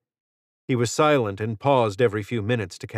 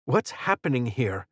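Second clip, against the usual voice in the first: snapping angrily; 2 semitones higher than usual. Acted. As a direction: snap at him, frustration spilling over. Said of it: "Aaron snapped".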